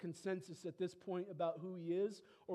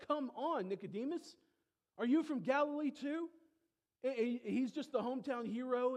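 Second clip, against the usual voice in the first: higher, louder mock outrage; exasperated Pharisee; 6 semitones higher, 4 dB louder than usual. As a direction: scoff at Nicodemus. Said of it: "Pharisees scolding Nicodemus".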